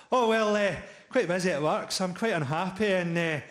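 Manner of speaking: lightly voiced bloke oversharing at a party; chatty barbecue bloke. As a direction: chat it like a weary dad at a barbecue.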